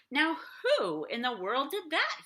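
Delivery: exclaiming watchman. Acted. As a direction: call out, puzzled and stern. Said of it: "he exclaimed".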